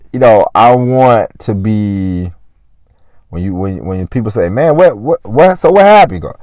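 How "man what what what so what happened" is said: high, loud curious what happened; higher, louder surprised asking; amazed question. Retold or imitated. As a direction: press them for the story. People asking how you made it.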